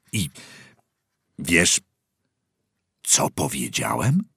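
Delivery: hushed whisper. A narrator's reading. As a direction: drop to a secretive whisper. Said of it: "Zniżył głos". (szeptem, ściszonym głosem)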